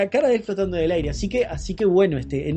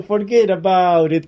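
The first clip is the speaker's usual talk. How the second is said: slow, lightly mocking Italian accent; 3 dB louder, slower than usual. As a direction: drag it out in a jokey Italian accent. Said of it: "con ese acento italiano". (acento italiano burlón y lento)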